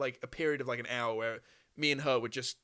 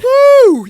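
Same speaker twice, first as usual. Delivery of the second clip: high pained whoop; 23 dB louder than usual. Real, not acted. Cramp releasing.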